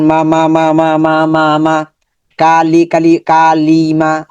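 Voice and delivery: syllables said apart, then joined into কালি repeated evenly; syllable blending drill. Shown as a demonstration. Teacher shows students how to join syllables. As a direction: build কা and লি into কালি for the class. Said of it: "হরকতের উচ্চারণ তাড়াতাড়ি করতে হবে".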